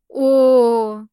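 a strangled wail pushed out; stifled howl. A narrator's reading. Hostage-taker Kurga breaking down, stifled howl. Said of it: "завыл Курга сдавленно".

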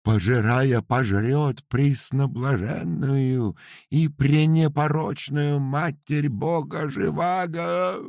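loud, slow ecstatic cry; prophesy doom while crossing himself; shouting. A narrator's reading. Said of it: "закричал Дуралом".

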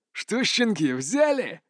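mustache twirling villain taunt; gloating villain, hissing with scorn; sneering hiss. A narrator's reading. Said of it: "ехидно прошипел первый". (ехидное шипение злодея)

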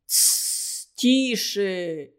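hushing whisper, alarmed; frightened hush. A narrator's reading. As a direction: shush him in a panic. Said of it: "испугался купец".

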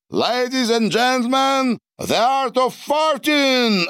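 pompous master of ceremonies, English; grand announcement. A narrator's reading. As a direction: announce it like a ringmaster to the whole table. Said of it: "объявил Дональд".

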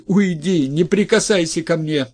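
high, loud shriek; wife recoiling from her husband, shrieking. Acted. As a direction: shriek at him to keep away. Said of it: "завизжала жена".

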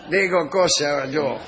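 slow, broken Spanish with a mock Russian accent; hammed-up Russian spy accent, slow. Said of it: "Con acento ruso".

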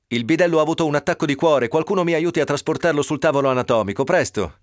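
doctor calling out in an emergency; urgent plea. A narrator's reading. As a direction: hurry them, the man is dying. Urgent call for help.

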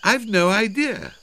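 loud, high, carrying voice; calling up. A narrator's reading. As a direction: call it up to someone high above. Calling up to cousin in tree.

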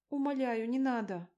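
high, loud imploring; acted desperate plea; begging. A narrator's reading. Victim begs not to be beaten.

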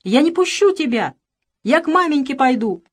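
high, loud protest, stress on пущу; defiant shout. Acted. Boy shouts he won't let Nikanor leave. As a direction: yell it, refusing to let go.

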